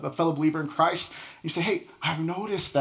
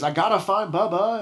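put-on Forrest Gump accent; 4 semitones higher, 3 dB louder than usual. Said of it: "sorry for the accent".

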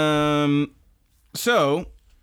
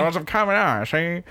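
higher, put-on mobster voice; hammed-up old-time tough guy; mock gangster; 6 semitones higher, faster than usual. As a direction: order it like a movie gangster. Repeats order as mock gangster.

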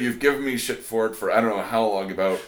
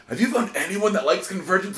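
raised voice for the quoted question; quoting him; 9 semitones higher than usual. Retold or imitated. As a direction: lift the quote up high. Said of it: "and he goes".

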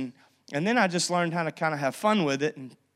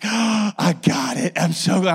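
excited; 5 dB louder than usual. Retold or imitated.

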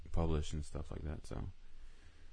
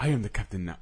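laughing; 3 semitones higher, 8 dB louder, faster than usual. Pretend. Joking impression, laughing.

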